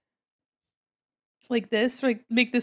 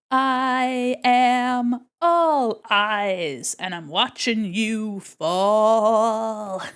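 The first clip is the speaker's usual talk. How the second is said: slow drawn-out eerie character line; slow creepy rabbit; 5 dB louder, much slower than usual. Pretend. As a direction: drag every word like a creepy creature.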